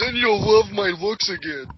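hammed-up villain promo, high, loud and slow; over-the-top imitation of a wrestler's taunt; Cody Rhodes. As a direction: declaim it melodramatically, drawing the words out. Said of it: "he's hamming it up too".

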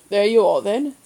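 mild shout over engine noise. Acted. Uncle driving, shouting over the engine, mildly. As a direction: call it over the roaring car. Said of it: "Great Uncle Mary shouted over the noise".

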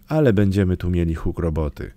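usual speaking voice

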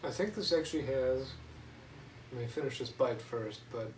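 speaking around food; talking while chewing. Real, not acted. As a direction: mouth partly full. Seen 0: Left speaker bites food at -4, chews with hand at chin.

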